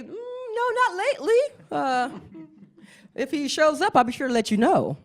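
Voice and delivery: high, straining not to laugh; stifled amusement. Retold or imitated. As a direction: keep a straight face, barely. Stifling laughter, answering politely.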